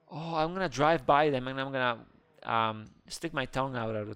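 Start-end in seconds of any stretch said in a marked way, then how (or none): none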